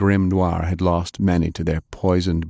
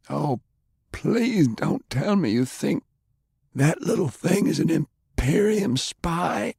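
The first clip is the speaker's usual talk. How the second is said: put-on scoffing, raised old gentleman; snorting dismissal; 11 semitones higher than usual. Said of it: "he snorted".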